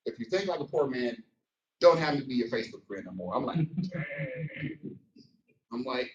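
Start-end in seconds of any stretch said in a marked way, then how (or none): 3.9-5.0 high, drawn-out surprised dang; a squeaky stunned dang; amazed reaction; mock surprise. Reacting to harsh Facebook post.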